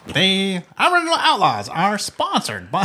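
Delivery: fifties voice. Pretend. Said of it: "Doing the fifties voice".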